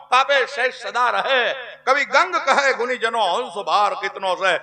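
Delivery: rhythmic, rolling recitation of folk verse. Acted. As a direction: declaim the poem in swinging cadences. (લયબદ્ધ કવિત પઠન)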